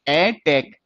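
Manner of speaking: ए held apart from टेक; two distinct beats, ए and टेक; split into syllables. Shown as a demonstration. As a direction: sound out ए, then टेक separately. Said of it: "T के बाद भी ए की sound आ रही है".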